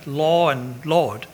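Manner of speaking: slow "Law and Lord", both words sounding alike; near-identical law, Lord. Shown as a demonstration. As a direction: show how "Law" and "Lord" share one vowel. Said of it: "They sound the same when you say it".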